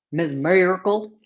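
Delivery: "Ms. Miracle" with a light Texan twang and rising end; Texas drawl. Shown as a demonstration. Repeating a viewer's name in Texan twang. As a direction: say "Ms. Miracle" again, drawn out the Texan way. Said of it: "That's how they say it in Texas".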